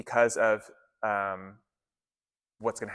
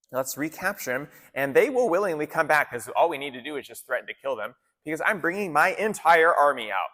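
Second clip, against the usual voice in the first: higher-pitched, casual scheming out loud; lightly voiced Pharaoh; 5 semitones higher, 3 dB louder than usual. Pharaoh reasoning about his lost workforce, lightly hammed-up. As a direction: play a ruler talking himself into a new plan. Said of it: "Pharaoh's gonna change his mind".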